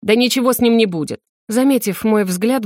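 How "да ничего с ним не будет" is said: normal talking voice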